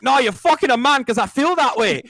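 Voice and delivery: high, loud mock voice, singsong; mocking impersonation. Debater imitating the people who ignore her points, high mocking impersonation. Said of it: "Nice impersonation".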